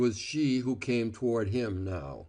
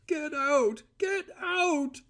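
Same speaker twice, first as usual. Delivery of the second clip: much higher shrieked order; screaming; slower than usual. A narrator's reading. Cora driving Val out the door, screaming. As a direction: scream it at him. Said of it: "she screamed".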